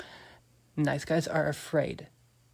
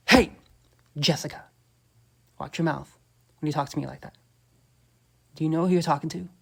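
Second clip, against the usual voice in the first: louder, firm command ending on a raised question; 6 dB louder than usual. Shown as a demonstration. Telling Jessica to watch her mouth, commanding. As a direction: put her in her place, firm. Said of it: "I say that loud and commanding".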